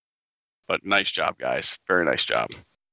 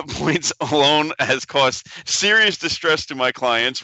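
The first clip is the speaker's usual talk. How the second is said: George Takei; 4 semitones higher, slower than usual. Acted. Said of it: "This is George Takei actually speaking".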